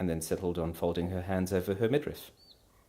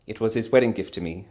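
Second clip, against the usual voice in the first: beaming; 3 semitones higher, 8 dB louder than usual. Acted. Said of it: "she beamed".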